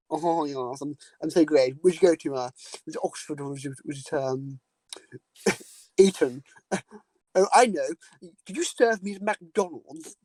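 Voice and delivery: a hint of a snooty posh boy, mocking; lightly lampoon a smug rich kid, laughing through it. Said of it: "all these posh boys are all like".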